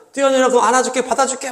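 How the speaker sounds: lightly voiced coaxing parent. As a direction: promise the child a safe catch. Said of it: "엄마든 아빠든".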